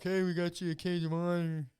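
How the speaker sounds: imitated promoters egging a fighter on; mock-insistent hype with a lilt; mimicked pushy pitch. Promoters badgering a fighter to take the fight, mimicked pushy pitch.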